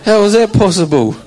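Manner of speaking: real laughter bubbling through the question; laughing. Real, not acted. Laughing at his own roar.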